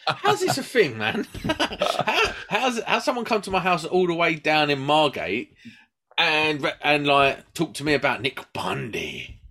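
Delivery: half-laughing mock outrage; laughing indignation. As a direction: laugh through the retold complaint.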